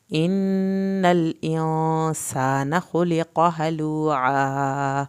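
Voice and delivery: slow, loud, drawn-out tajweed chant; Quran recitation. Shown as a demonstration. Teacher recites aloud for students, slow loud chant. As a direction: chant each word slowly for the class to follow. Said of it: "نون کی شد پہ ہم نے دیر لگائی".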